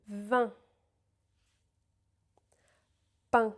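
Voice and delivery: Vin, Pain, Demain, Matin, Jardin said slowly with pauses; slow model words. Shown as a demonstration. Teacher models in words slowly for repeating. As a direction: model each nasal word slowly. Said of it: "I will say these words slowly".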